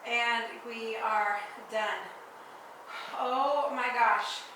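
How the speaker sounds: slow, breathless after the set; exhausted, catching your breath. Real, not acted. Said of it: "My abs are on fire".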